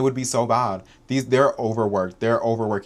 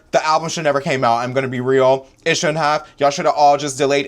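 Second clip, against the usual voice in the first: yelling; 3 semitones higher, 4 dB louder than usual. Real, not acted. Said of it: "I'm done yelling about this".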